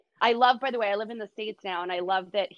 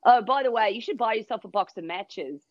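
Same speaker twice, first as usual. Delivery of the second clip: put-on a light Australian accent for the snowboarder. Australian snowboarder teasing her about the smell, light Australian accent. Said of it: "You do the accent so well".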